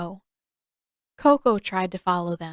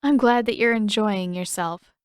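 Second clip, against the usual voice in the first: flatly; 4 dB louder than usual. Acted. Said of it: "she answered flatly".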